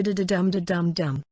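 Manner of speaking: DUM stressed in "da-da-dum-da-dum-dum"; rhythmic beat. Shown as a demonstration. Teacher sounding out poetic rhythm like beats in music, rhythmic. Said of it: "becomes like the beats in music".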